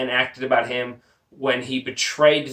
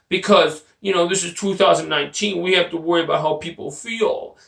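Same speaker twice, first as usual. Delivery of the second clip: mock crybaby coach begging the boss for rule changes; mocking whiny coach; 2 semitones higher than usual. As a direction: ham up a crybaby coach complaining to his boss. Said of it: "can you imagine losing and being like".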